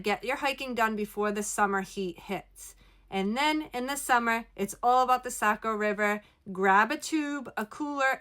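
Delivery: small room echo inside a trailer; speaking inside a small RV; recorded in an RV. Real, not acted. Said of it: "I am recording from my R V".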